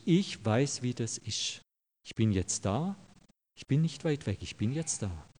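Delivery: soft, quiet voice of Jesus reassuring; tender reassurance. Acted. Jesus speaking to a lonely listener: soft, reassuring. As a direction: let it sink in gently and quietly.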